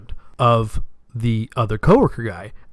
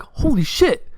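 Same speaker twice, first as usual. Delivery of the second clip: much higher, amazed exclamation; stunned; 11 semitones higher, slower than usual. Retold or imitated. Buddy stunned by the coincidence, high amazed exclamation. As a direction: squeak it out in disbelief.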